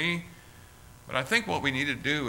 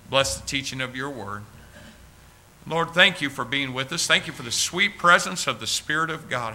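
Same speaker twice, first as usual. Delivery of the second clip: earnest pastor's prayer, slowing on key words; heartfelt closing prayer from the pulpit. Acted. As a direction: pray it tenderly to the congregation.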